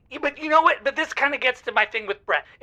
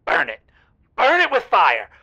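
burn it; 2 semitones lower, 4 dB louder than usual. Acted. Caller confessing her first thought about the teddy, building loud. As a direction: start cold, then blurt it out loud.

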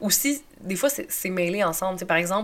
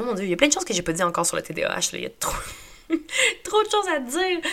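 flustered rush; 5 semitones higher, faster than usual. Retold or imitated. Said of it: "je suis comme".

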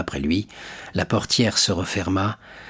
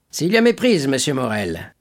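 high, firm official's voice; stern commissaire; 4 semitones higher than usual. Acted. Commissaire répondant fermement à monsieur Morel. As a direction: play the police commissary, stiff and formal.

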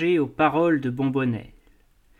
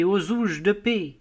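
put-on old cobbler crying out again; 4 semitones higher than usual. A narrator's reading. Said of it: "Un vieux cordonnier juif criait".

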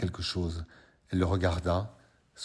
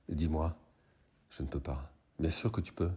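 much softer, hushed lovers' talk; soft intimate; 3 semitones lower, 6 dB quieter than usual. Acted. Lovers in bed coaxing a secret fantasy, hushed. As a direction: coax it out gently, close and low.

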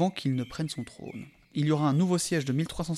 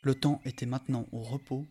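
voix de conteur posée; lecture de récit. A narrator's reading. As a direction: lire le passage comme un conte. Reads the novel aloud. (narration calme et posée)

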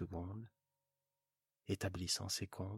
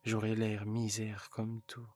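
louder, plaintive wife; wife lamenting to her husband, louder; complaining wife; 2 semitones higher, 6 dB louder than usual. Acted. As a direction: whine about having no jewels. Wife complaining about jewellery.

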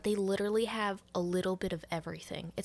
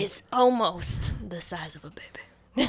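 whispered aside; 4 dB louder than usual. Acted. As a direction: whisper it as a side joke. Joking aside about baby.

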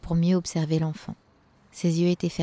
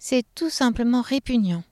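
disgusted elf woman; 6 semitones higher than usual. Acted. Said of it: "renchérit la lutine".

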